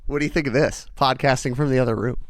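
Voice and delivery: calling through a closed door; from another room. Real, not acted. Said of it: "Uh, I can still hear you".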